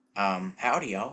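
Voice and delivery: a bit of a put-on Southern accent. Asked which accents they can do, demonstrating a bit of a southern accent. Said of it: "a little bit of a southern accent".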